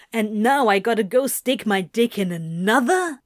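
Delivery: lightly voiced put-upon demon; Crowley's indignant complaint. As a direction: gripe it, rising into a question at the end. Crowley speaking in character.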